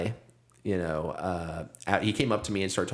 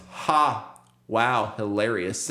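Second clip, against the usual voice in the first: retold mocking fake laugh; mocking heckler; much slower than usual. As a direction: imitate a sarcastic heckler's slow put-down.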